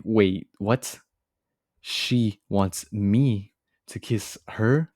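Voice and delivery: slow, halting mock disbelief; retold stunned disbelief. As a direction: act out freezing at an unexpected request. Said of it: "I just froze".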